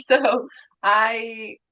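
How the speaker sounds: a bright nervous laugh into the start. Real, not acted. Guest laughing nervously as she begins her story. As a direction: laugh it off before diving in.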